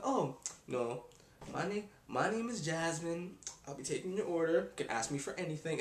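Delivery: a hint of a cheery waitress; nice waitress. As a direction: greet the table sweetly and helpfully. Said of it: "the nice one come around".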